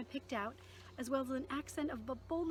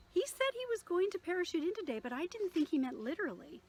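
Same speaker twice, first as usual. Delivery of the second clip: higher and louder, breathless with astonishment; amazed church secretary; 7 semitones higher, 4 dB louder than usual. Acted. Tilly explains the pastor's parachute arrival to Maddie, higher and excited. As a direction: tell it like you can't believe your eyes.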